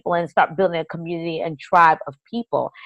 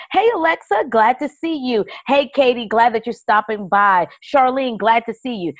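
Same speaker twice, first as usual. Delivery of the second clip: bright, higher-pitched hello to arriving viewers; greeting viewers by name; 3 semitones higher than usual. Shown as a demonstration. Broadcaster welcoming viewers as they join, friendly greeting. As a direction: call each one in like a welcoming host. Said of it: "You want to call them in".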